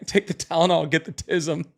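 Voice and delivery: said through a laugh. Real, not acted. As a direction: laugh while repeating the guilty joke. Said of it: "I should not be laughing at it".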